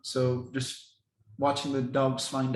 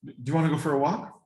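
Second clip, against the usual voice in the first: enticing call; 2 semitones higher, faster than usual. Shown as a demonstration. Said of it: "I'll kinda give you an example".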